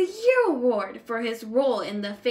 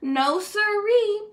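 slow, emphatic no siree; drawn out and higher, digging in; firm refusal; 9 semitones higher, 4 dB louder, slower than usual. A narrator's reading. Stanley refusing to change his name, slow and emphatic.

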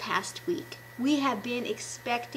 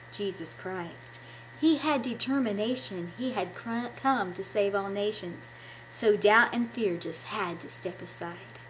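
put-on gentle church poem reading for the kids; reading her poem. Shown as a demonstration. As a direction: read the verses like a proud little hymn. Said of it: "I'm just gonna read it".

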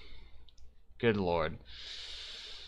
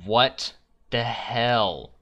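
slow, louder what the hell; drawn-out disbelief; 2 semitones higher, 6 dB louder, much slower than usual. Real, not acted. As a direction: stretch it out, baffled. Baffled by the puzzle.

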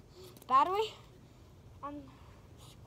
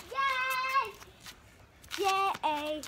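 excited cheer; 5 semitones higher, 3 dB louder than usual. Real, not acted.

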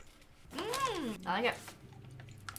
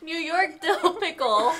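slow, louder announcer-style reveal; showy product reveal; 7 semitones higher, 6 dB louder, slower than usual. Shown as a demonstration. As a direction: present it like a TV host unveiling a prize. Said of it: "I'm just gonna show every product like this".

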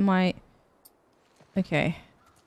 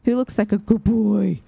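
doting pet talk; 3 semitones higher, 5 dB louder than usual. Real, not acted. Fussing over a good boy.

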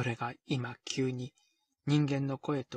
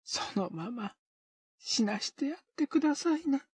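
rasping, higher voice from the sickbed; dry hoarse call; 13 semitones higher than usual. Acted. Sick O-fumi calls from her bed, rasping hoarsely. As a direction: call out hoarsely, barely human. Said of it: "カサカサにしゃがれた声で呼びかけた".

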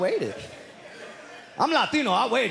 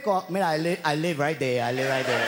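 grandma scolding. Retold or imitated. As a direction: tell him where she lives, rapid and sharp. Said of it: "she let him know".

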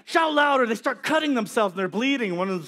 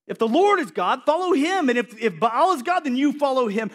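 challenging the people; 5 semitones higher than usual. Retold or imitated. Elijah challenging the wavering people, raised. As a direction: press the crowd, raised voice. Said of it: "He's like".

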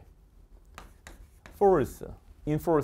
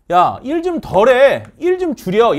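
mock scolding; 7 semitones higher, 8 dB louder, slower than usual. Boss telling someone to work less.

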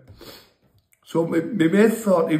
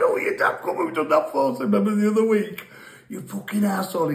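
pitched way up, shouting abuse; mock furious yell; 6 semitones higher than usual. Mate yelling abuse after being kicked, mock angry squeal. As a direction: ham up his angry squeal after the kick. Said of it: "he's calling me fucking all there".

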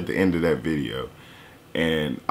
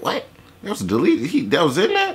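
mock shocked; 11 semitones higher than usual. Imitating gullible listener.

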